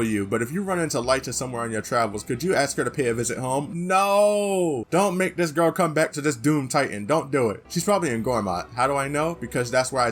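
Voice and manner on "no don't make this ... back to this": outburst. Real, not acted. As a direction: shout it down in protest. Protesting the daughter being called home.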